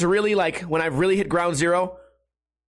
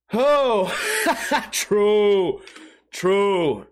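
laughing agreement; much slower than usual. Real, not acted.

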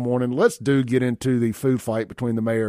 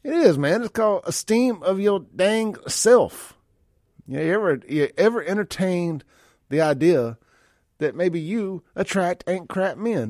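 high, slowed comedian rant, pitched way up; Cat Williams impression; 6 semitones higher than usual. Radio host doing a Cat Williams bit for a texter, high and emphatic. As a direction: preach it like Cat Williams roasting the audience. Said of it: "In my Cat Williams voice".

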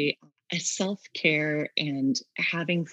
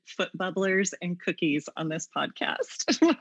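grinning through the words; smiling voice; 2 semitones higher than usual. Real, not acted. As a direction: smile you can hear. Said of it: "I'm smiling so big right now".

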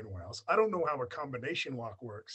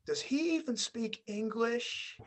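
higher, slow mock-puzzled schoolgirl; a girl asks his friend in disbelief, higher and slow; mimicking a girl; 8 semitones higher, slower than usual. Imitating the girl asking his friend, high and slow. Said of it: "she turns to him and is like".

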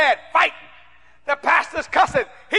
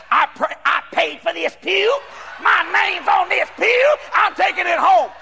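higher, slow, emphatic protest; mimicked indignant woman; 5 semitones higher than usual. Acting out woman dragging her pew.

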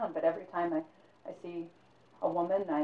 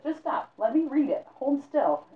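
firm command; 8 semitones higher, 5 dB louder than usual. Acted. Old man ends the argument.

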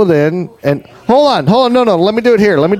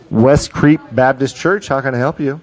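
church receptionist; 5 semitones lower, 3 dB quieter than usual. Pretend. Streamer answers a prank caller as church, lightly voiced. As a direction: answer the phone like a church secretary.

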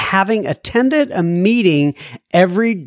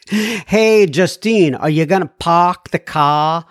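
playful mock Boston accent, dropped Rs; lightly hammed Boston accent with a laugh; slower than usual. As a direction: tease her in a Boston accent. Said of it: "I have a bit of a Boston accent".

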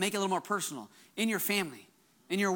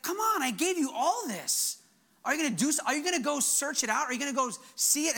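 God urging on; 6 semitones higher than usual. Retold or imitated. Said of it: "God's like".

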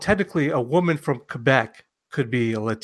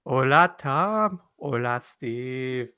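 put-on slow, drawn-out Spanish-accented greeting; sultry Spanish accent; much slower than usual. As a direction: imitate a sultry Spanish-accented podcast announcer. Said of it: "what is a Spanish accent?".

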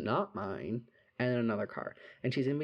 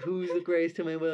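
insistent; 6 semitones higher, 4 dB louder than usual. Retold or imitated. Repeating question to cheer friend.

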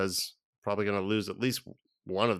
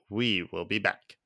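dramatic signoff; 3 semitones lower, slower than usual. Shown as a demonstration.

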